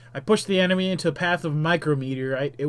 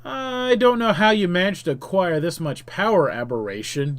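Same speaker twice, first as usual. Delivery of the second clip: heroic shout; 2 semitones higher than usual. Acted. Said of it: "you shout".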